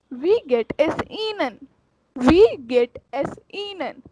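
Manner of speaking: Wie geht es Ihnen said as vee gayt es eenen, careful; German pronunciation demo. Shown as a demonstration. Teacher showing the formal greeting, careful demo. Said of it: "The formal way of this is".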